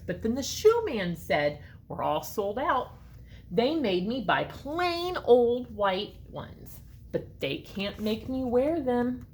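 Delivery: put-on lively read-aloud for children; story narration. A narrator's reading. Reading a story to children, lively and expressive. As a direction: read it like a picture book to kids. Reads picture book aloud.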